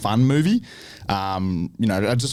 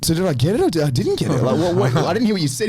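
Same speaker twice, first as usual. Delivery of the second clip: retold confusion; 9 semitones higher, 3 dB louder than usual. Retold confusion at garbled good news.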